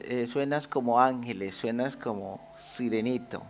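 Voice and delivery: softly voiced fatherly praise; gentle encouragement. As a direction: encourage tenderly, keeping it quiet. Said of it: "para animarlo".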